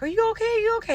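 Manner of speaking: high, urgent mock yell; imitated yelling. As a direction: mimic worried relatives calling out, pitch way up. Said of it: "and they're yelling".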